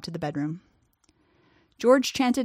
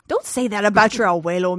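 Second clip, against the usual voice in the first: scolding; 6 dB louder than usual. A narrator's reading. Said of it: "Missus Ramirez scolded".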